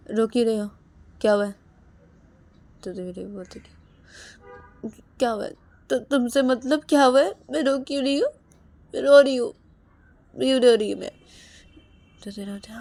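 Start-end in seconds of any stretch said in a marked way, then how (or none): 0.1-1.6 louder pressing questions; insistent asking. Acted. Husband pressing his crying wife for an answer. Rahul asks crying Ravi. 4.9-11.1 high, loud snapping back; angry retort. Acted. Tearful wife snapping at her husband, loud and angry.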